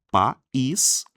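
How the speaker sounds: "país" in two spaced beats, pa-ÍS; two syllables. Shown as a demonstration. Teacher counts the two syllables of país, separated. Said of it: "você tem duas sílabas".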